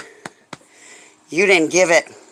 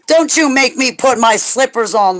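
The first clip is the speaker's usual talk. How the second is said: playful mock threat; 5 semitones higher, 3 dB louder than usual. Real, not acted. Playfully scolding Lori while laughing.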